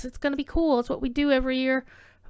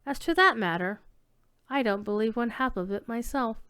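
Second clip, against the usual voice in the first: put-on story read in a light English accent; lightly put-on English accent for the tale; gentle English storyteller accent; 3 semitones lower than usual. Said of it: "I hope my English accent wasn't too terrible".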